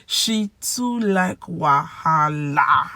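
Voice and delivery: slow, drawn-out showcase; phrase presentation. Shown as a demonstration. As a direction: announce the phrase syllable by syllable. Presents pidgin phrase of the day.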